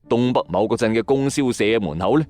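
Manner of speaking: plain reading voice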